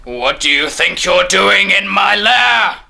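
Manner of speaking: high, outraged villain voice; indignant woken snake. Acted. Snake wakes to an intruder, high indignation. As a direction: demand answers as a startled snake.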